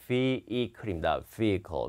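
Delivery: vehicle as "vee-uh-kul", no h; silent H. Shown as a demonstration. Teacher repeating the model, vehicle without H. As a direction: say vehicle slowly with the h dropped. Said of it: "H 발음 안 합니다".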